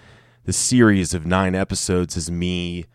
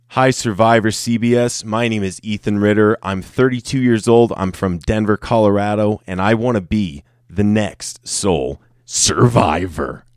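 audition intro take; 2 semitones higher, 4 dB louder than usual. Shown as a demonstration. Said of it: "I think that's all I'm gonna do tonight for that".

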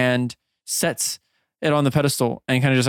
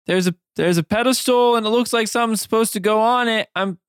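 put-on raised, eager girl voice; high-pitched Emmy voice; 9 semitones higher than usual. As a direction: lift the pitch, curious and chatty. NPC Emmy at the pedestal.

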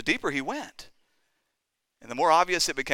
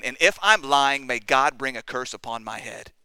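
solemn curse. Retold or imitated. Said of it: "Peter invoked a curse".

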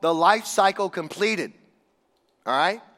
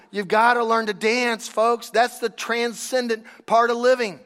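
raised, firm authoritative proclamation; voice of authority; 4 semitones higher than usual. Retold or imitated. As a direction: declare it like a wise elder. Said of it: "with this voice of authority".

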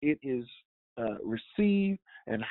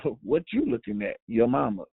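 mock street challenge; 3 semitones lower than usual. Shown as a demonstration. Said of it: "raise my hand in fury to punch you".

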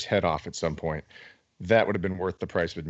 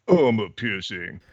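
robotic gun command; 2 semitones higher, 3 dB louder, slower than usual. Pretend.

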